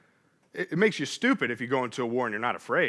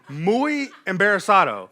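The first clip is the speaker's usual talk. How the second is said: laughing; 4 semitones higher, 5 dB louder than usual. Retold or imitated. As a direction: repeat it through a laugh, a bit louder. Repeats the phrase while laughing.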